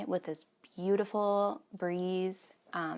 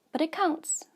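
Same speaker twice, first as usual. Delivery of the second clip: whisper; 9 semitones higher than usual. Real, not acted. Insisting, joking to herself.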